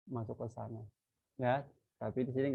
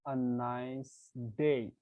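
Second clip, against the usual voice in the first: slow example read; much slower than usual. Shown as a demonstration. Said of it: "Lihat, what".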